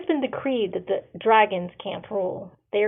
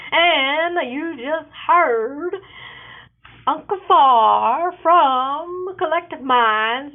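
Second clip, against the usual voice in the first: higher, louder upbeat author pitch; promo read; 5 semitones higher, 6 dB louder than usual. Real, not acted. Author pitching her book series to listeners, upbeat and bright.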